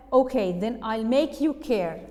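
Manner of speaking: a touch of acted anger; angry threat. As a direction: push it out firmly as a threat. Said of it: "she got very angry".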